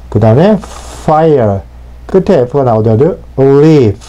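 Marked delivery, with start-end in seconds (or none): 3.4-4.0 leaf ending in a blown F sound; airy final F. Shown as a demonstration. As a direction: let air hiss out at the end of leaf. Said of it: "바람 소리를 내시면 됩니다". (leaf 끝에 바람 소리)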